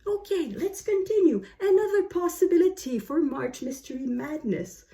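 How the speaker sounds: slow yourself right down, word by word; turtle-slow speech. Real, not acted. Vlogger reining in her fast talk after a breath, slow and deliberate. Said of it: "I'm speaking like a turtle".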